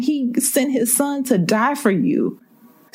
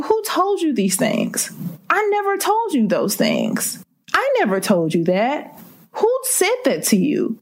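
higher, insistent God questioning; voicing God; 5 semitones higher than usual. God asking his children who told them these lies, higher and insistent. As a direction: ask it like a father who never said that.

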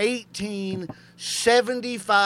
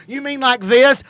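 tag retort; 8 semitones higher, 10 dB louder, slower than usual. Retold or imitated. Acted retort while pointing at women.

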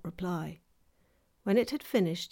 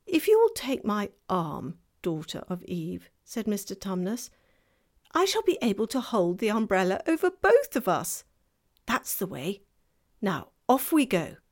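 fawn voice; 4 dB louder than usual. Acted.

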